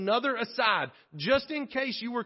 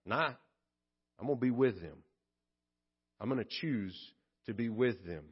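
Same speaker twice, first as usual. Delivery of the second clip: lower, slowing, sincere resolve; God resolved and tender; 5 semitones lower than usual. Acted. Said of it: "God rolled up his sleeves and said".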